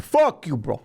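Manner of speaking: put-on weird Jamaican accent. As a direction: keep cursing in mock Jamaican. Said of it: "he just kept on".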